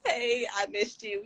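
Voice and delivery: high, drawn-out squealing hello to a friend; gushing greeting. Retold or imitated. Viewer greeting a live streamer, gushing high and excited. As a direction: gush over a friend you missed. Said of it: "I be like".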